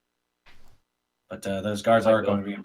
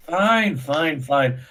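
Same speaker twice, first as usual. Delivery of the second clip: higher, swooping tipsy concession; acting drunk; 4 semitones higher, 4 dB louder, much slower than usual. Drinker giving in to the guard, acting drunk. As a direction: give in like a mild drunk. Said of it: "I've been acting drunk".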